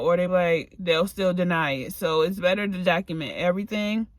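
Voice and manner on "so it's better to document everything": slightly winded, breathing between words. Real, not acted. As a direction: talk while catching your breath. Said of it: "I don't know why I'm out of breath".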